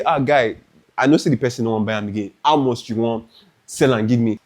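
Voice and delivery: quick retold Nigerian Pidgin haggling; fast Nigerian Pidgin, casual to the seller. Haggling with the seller, fast Nigerian Pidgin. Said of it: "I started to speak pidgin English".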